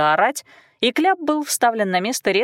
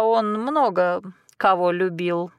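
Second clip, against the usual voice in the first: slow, musing, drawn out; unhurried wry musing; thoughtful drawl; slower than usual. A narrator's reading. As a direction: draw it out, pondering. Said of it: "задумчиво протянула Мира".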